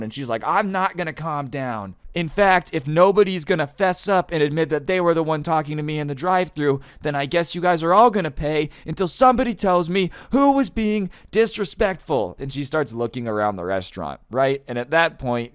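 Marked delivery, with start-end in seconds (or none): 0.4-12.4 high, loud tirade that builds; escalating mock-furious threat; screaming customer. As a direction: imitate her refusing to calm down, climbing higher. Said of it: "'cause she's screaming".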